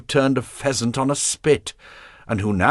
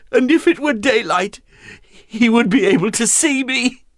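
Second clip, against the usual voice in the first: high, loud, gleeful voice; 4 dB louder than usual. A narrator's reading. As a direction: crow it with wicked glee. Marguerite mocking her husband, elated.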